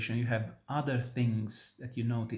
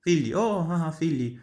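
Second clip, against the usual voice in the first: mock sobbing sung phrase, a little louder; exaggerated weeping take; overdone sobbing; 4 semitones higher, 4 dB louder than usual. Shown as a demonstration. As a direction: ham up the crying as singers do. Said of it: "it's not".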